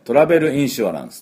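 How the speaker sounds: "トラベルインシュアランス" in even Japanese syllables; Japanese-accented "トラベルインシュアランス", every vowel sounded; katakana English. Shown as a demonstration. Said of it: "カタカナ英語だと".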